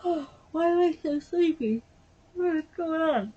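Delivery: high, gasping self-reproach; exasperated exclamation. Real, not acted. Speaker puzzled by own sleepiness, exasperated.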